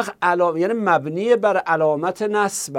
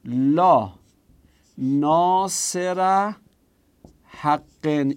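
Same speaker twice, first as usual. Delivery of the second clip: slow dictation; much slower than usual. Shown as a demonstration.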